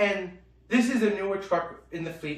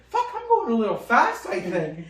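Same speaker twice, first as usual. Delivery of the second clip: laughing alarm. Retold or imitated. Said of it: "he's like".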